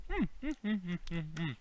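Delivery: soft, pleased chewing hum; savoring hum. Real, not acted. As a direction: hum over the taste of grapes. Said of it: "making my cheeks".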